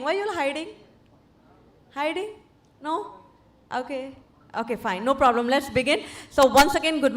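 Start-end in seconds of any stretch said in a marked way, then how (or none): none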